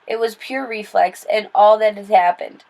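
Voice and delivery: ordinary delivery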